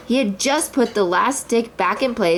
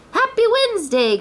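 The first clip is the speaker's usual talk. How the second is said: higher called greeting; calling out; 13 semitones higher than usual. A narrator's reading. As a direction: Pooh calls while racing by. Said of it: "Pooh called".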